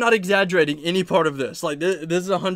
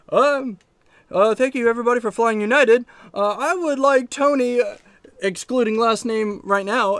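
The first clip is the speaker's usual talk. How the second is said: higher, louder gate agent paging passengers; airport intercom announcer; 5 semitones higher, 3 dB louder than usual. Retold or imitated. Retelling the airport intercom page, a louder, higher announcer voice. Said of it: "I hear over the intercom".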